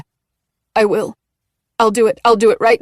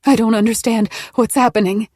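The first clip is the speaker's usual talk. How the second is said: higher and louder, strained pleading; desperate, through gritted teeth; 4 semitones higher, 4 dB louder than usual. A narrator's reading. Maggie in labour pleads with Nola through gritted teeth. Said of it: "Maggie said through gritted teeth".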